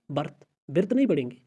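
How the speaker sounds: "बर्थ" with a short a sound set against wrong "बिर्थ" with i, said fast; quick correction of a wrong reading; right versus wrong. Shown as a demonstration. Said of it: "बिर्थ गलत है".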